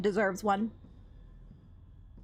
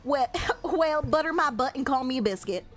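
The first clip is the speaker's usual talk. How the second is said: put-on Southern accent; 4 semitones higher than usual. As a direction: deliver it like a Southern grandpa. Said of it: "I would love for him to say that".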